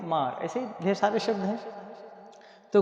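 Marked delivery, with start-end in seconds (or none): 0.0-0.4 "मार" with a long open "आ" before r. Shown as a demonstration. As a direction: say "मार" with an aah vowel. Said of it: "इसे पढ़ेंगे हम".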